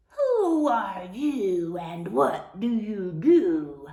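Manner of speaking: slow, drawn-out, lightly growled question; a mild mock roar, stretched out; lions roaring. Lions challenge the lost cow, in a mild drawn-out roar. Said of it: "the lions roared".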